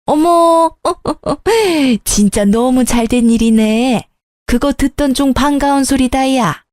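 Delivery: a lightly voiced older woman, pleased and surprised; gasping with joy at good news; delighted older mother. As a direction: coo over the good news like a happy mother.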